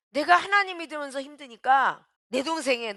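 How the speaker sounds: normal talking voice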